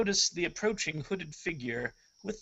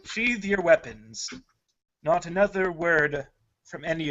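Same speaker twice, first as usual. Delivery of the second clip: commanding priest; 2 semitones higher, 4 dB louder than usual. Acted. Priest orders the room to disarm.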